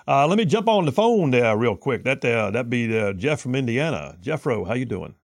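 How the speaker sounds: lightly put-on Southern cartoon blowhard; a hint of drawling Southern bluster; Foghorn Leghorn. Host greeting a caller, in a Foghorn Leghorn impression. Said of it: "How'd you like my Foghorn Leghorn".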